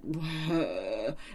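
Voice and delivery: imitated wail, softly drawn out; mock crying. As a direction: mimic someone crying, half-hearted. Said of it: "she's, like, crying and".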